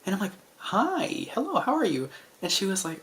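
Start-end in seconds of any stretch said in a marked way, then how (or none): 0.6-2.1 chirpy greeting. Retold or imitated. His excited retold reply to Chica.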